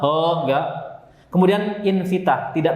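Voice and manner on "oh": "oh" with heavy rounded vowel; wrong-way rounded, heavy "oh"; thick sound. Shown as a demonstration. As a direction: thicken it into a full "oh". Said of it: "jangan tebal".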